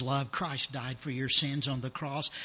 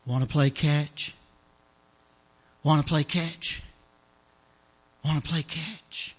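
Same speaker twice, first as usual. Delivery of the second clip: heavenly voice; 3 dB louder than usual. Acted. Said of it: "that heavenly voice".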